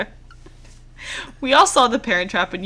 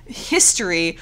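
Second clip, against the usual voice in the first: scolding yourself; 7 semitones higher, 4 dB louder than usual. Retold or imitated. Ranting at character.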